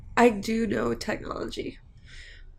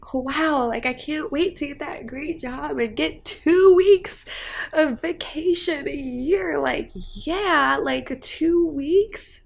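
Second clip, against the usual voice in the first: mock-eager, dragging out the final "two weeks?"; sarcastic; 3 semitones higher, slower than usual. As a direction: fake enthusiasm, then a slow scornful "two weeks?". Mocking a stingy vacation promise.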